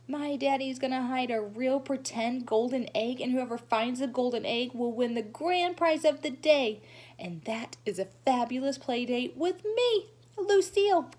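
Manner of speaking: lightly voiced boastful little girl, rising to her own name; showing-off girl. Lucille boasting to the class about her prize, lightly voiced and showy. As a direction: brag sweetly, then sing out your name.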